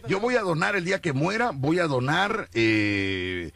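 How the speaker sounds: lady volunteering. Retold or imitated. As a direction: call out like a keen old lady. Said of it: "sale una señora y dice".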